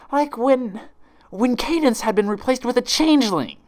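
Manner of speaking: high, loud manic outburst; frantic accusation. Acted. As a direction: blurt out the sudden realization. Twilight's rage turns to realization.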